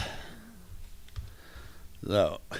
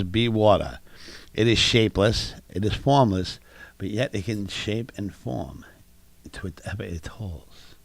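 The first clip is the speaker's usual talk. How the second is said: mock Bruce Lee; 4 semitones lower than usual. Reciting Bruce Lee's philosophy in a mild Bruce Lee accent. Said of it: "What fucking accent is that?".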